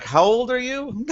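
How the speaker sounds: high, slow scolding mom voice; scolding wife. Retold or imitated. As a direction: ask it like a fed-up wife. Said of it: "She's like".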